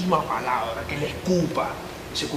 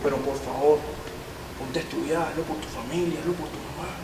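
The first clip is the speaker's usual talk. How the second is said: softer, sincere urging; gentle plea; 2 semitones lower, 6 dB quieter than usual. Acted. Officer gently urging the boy to change his life. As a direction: plead with the kid quietly. Officer pleading with young suspect.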